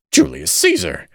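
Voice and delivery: put-on very high drunken cry. A narrator's reading. Staggering drunkard calls his associate, crying out. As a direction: call out wildly, pitch leaping up. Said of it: "cried Beckwith".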